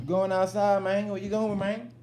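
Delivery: high, playful talk to a dog; playful pet talk. Pretend. Owner asking dog about going outside, high playful voice. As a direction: pitch it way up for the dog.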